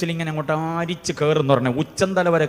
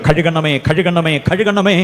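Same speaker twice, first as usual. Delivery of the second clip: fervent plea; 5 dB louder, slower than usual. Shown as a demonstration. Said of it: "എന്ന് പറയാൻ കഴിയണം".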